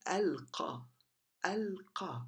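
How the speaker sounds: ألقى with the l fully said before the q; sounded lam. Shown as a demonstration. Teacher showing a moon letter, lam pronounced. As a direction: keep a clear L in ألقى. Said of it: "you don't drop the lam here".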